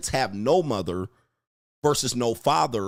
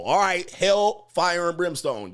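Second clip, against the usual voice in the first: drawn-out preachy roar, higher and slow; fire and brimstone; 6 semitones higher, slower than usual. Retold or imitated. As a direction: play the father raising hell. Father raising hell.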